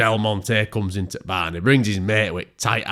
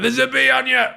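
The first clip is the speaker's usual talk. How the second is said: shrill squeak an octave up, on the edge of a yelp; squeaky high voice; 5 dB louder than usual. Acted. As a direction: squeak it out like a panicked cartoon. Absurd high-pitched quote.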